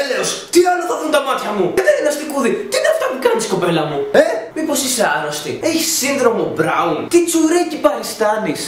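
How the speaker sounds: high, incredulous scolding; scolding disbelief. Real, not acted. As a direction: scold her like she's lost her mind.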